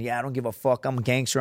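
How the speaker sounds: fake gangster bravado. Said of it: "not gonna sit here and pretend".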